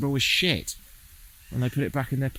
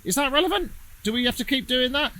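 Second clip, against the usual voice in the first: high, incredulous mock questioner; high questioning voice; 13 semitones higher than usual. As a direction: squeak it out as a baffled critic. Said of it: "someone's gonna say".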